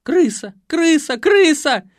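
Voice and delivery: rising, very high loud screams; ultrasonic shriek. A narrator's reading. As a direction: climb into a piercing shriek. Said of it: "перешла в диапазон ультразвука".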